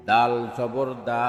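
final "দা" cut short; quick short vowel. Shown as a demonstration. Teacher demonstrating normal jabar, short "দা". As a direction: keep the last "দা" brief, not held. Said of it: "তাড়াতাড়ি করতে হয়".

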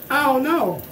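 echoey bathroom voice; talking over running water; talking in the shower. Real, not acted. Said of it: "Why am I vlogging in the shower?".

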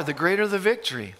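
quick dramatic whisper. Real, not acted. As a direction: drop to a hushed whisper for the punchline. Sermon climax line dropped low.

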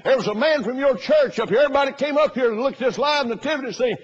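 high, loud, slowing to a hammed-up wail; building indignation, stretched out; mock outraged complaint. Preacher imitating the pastor complaining about brochures.

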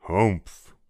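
a big bear's grunt; a hint of papa bear's huff; papa bear humph. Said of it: "said the papa bear in his great big voice".

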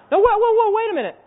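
high, loud halting interjection; high-pitched pretend surprise; mock astonishment. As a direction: stop the room as if startled.

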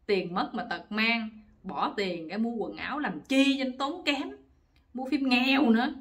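ordinary delivery

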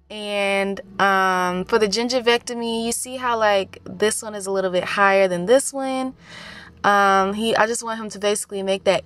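talking with fingers in mouth; fingers holding lip up. Real, not acted. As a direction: upper lip pulled back. Seen 3: Fingers hold upper lip up showing gums while she speaks.

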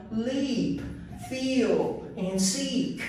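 "Leap, feel, and seek" with the long ee; long E words together. Shown as a demonstration. Teacher reading the long E set together. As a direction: run the three long ee words in a row. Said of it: "read all the words together".

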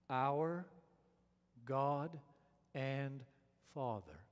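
one word at a time: OUR, GOD, AND, FATHER, long pause after each; slowed for emphasis. Shown as a demonstration. Preacher reading the repeated phrase so listeners get it, slow and emphatic. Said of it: "I'll slow down for the sake of emphasis".

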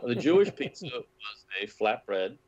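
put-on light Austrian accent with a laugh; a touch of Austrian accent, chuckling. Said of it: "I'm doing his impeccable Austrian accent".

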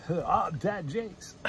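slow, smooth radio DJ delivery; radio announcer voice. Retold or imitated. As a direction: draw it out like a radio host. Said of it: "Sound like a radio guy".

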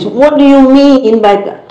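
mock confusion, voice lifted high; confused listener. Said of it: "they confuse".

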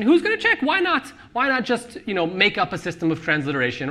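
very high mock-innocent squeak; mocking careless question. Author mocking writers who fake Yiddish, very high squeak. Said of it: "There's that question".

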